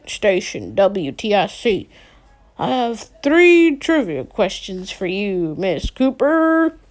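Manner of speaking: a hint of a hammy radio announcer; put-on radio host. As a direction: play a cheesy game show caller. Boy fakes radio host voice.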